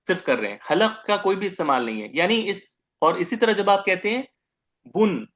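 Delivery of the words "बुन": बुन with the नून hummed through the nose; nasal sound demo. Shown as a demonstration. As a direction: let बुन ring in the nose. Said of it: "नाक से आवाज निकाल रहे हैं". (नाक से गुन्ना के साथ बुन)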